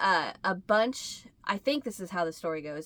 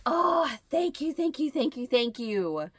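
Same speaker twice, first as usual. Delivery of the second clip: gushing thanks; 4 semitones higher than usual. Retold or imitated. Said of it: "And I was like".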